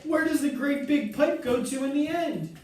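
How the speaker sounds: high frantic question; shrieking. A narrator's reading. Mother shrieking about the pipe, high. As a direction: shriek for the answer. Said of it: "shrieked Missus Salt".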